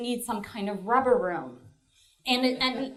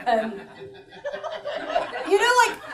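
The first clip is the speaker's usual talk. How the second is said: deadpan comic. Acted. Bill's comic persona bit.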